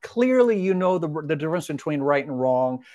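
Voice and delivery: very kindly. Retold or imitated. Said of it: "very kindly say".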